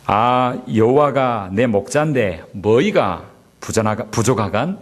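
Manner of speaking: a hint of Pyeongan dialect, halting attempt. Pastor attempting the Pyeongan psalm before the congregation, faltering hint of the accent. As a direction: try a Pyeongan accent and stumble. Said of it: "평안도 버전으로 이렇게 이야기하고".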